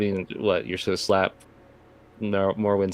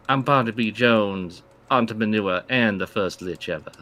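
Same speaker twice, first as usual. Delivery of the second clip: villain voice; 3 semitones higher, 7 dB louder than usual. Acted. GM voices the lich Barnaby.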